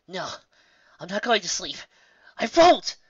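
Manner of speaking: rising to a high, loud cry of refusal; defiant. Acted. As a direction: force herself awake, shouting it out. Exhausted filly refusing to sleep.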